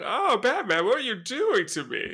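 high, hammed-up swooning villain; mock swooning. Villain playing along with co-host's innuendo, mock swooning. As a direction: swoon theatrically in a put-on high voice.

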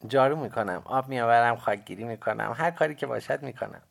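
put-on high, loud boy's voice; young boy. A narrator's reading. Boy character lists his chores.

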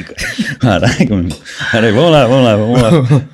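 choking on a drink. Real, not acted. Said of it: "Agora engasguei com água aqui".

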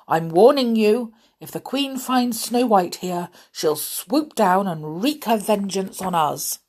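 loud, ominous storybook warning; grumpy warning. Acted. Grumpy warns the dwarfs about the Queen's vengeance, grumpy warning. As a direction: warn them hard, as the grumpy dwarf.

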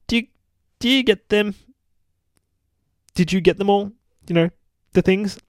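high-pitched, rambling little-sister voice; Gabby. Acted. Hurt sister telling Laura how she feels, high rambling voice. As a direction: play the dazed sister, high and halting.

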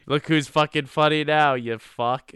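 mock angry comeback, loud and high, then dropping; ugly American retort. Turning the mockery back on Cockney teens, mock ugly American. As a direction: play the crude American getting even. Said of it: "grading this as an ugly American".

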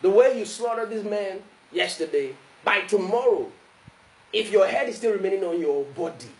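mildly menacing ultimatum; threatening letter. Acted. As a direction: deliver a measured threat. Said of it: "that was the tone of the, of the letter".

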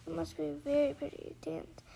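Alice speaks timidly to the dancers. Acted. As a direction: say it shyly and small. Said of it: "Alice said timidly".

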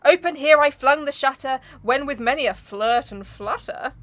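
slowing, rhythmic poetry reading; poem recitation. Acted. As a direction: declaim the verse with relish.

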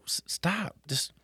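lightly voiced firm dad telling his son to stop; a hint of a firm parent; mock stern dad. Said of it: "And I go".

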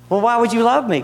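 high, pleading why; pleading question. Acted. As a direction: ask God in a rising plea.

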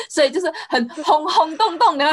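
laughing through the words; giggling while saying it. Real, not acted. Laughing after being corrected.

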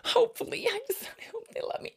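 breathy whisper. Acted. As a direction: whisper it hopefully. Whispered hope about listeners.

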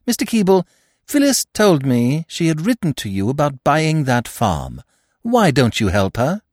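put-on bright, direct young lady speaking to her friend's stepfather; Eve's voice. Eve voiced, higher pitch.

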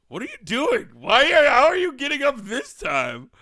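high, startled questions; suddenly surprised. Real, not acted. Surprised at co-host getting up.

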